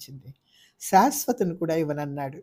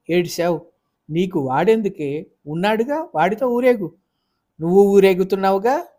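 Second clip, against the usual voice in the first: higher, louder angry yelling; shouting match; 3 semitones higher, 7 dB louder than usual. Acted. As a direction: hurl it back at each other. Shouting match over the son. (కొడుకు కోసం గొడవలో గట్టిగా అరుపులు)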